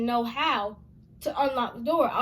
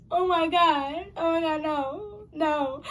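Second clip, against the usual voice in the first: panicked cry; 5 semitones higher, 3 dB louder, slower than usual. Retold or imitated. Kid panicking at the kicked door.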